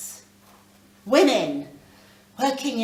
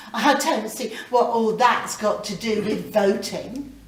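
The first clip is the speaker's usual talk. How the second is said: incredulous laugh; 6 dB louder than usual. Acted. Sandra laughs in disbelief.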